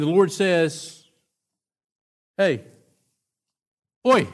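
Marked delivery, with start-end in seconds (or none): 2.4-4.3 a light Australian "oi" call; calling out like an Australian God; Aussie God. Retold or imitated. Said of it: "God's an Aussie".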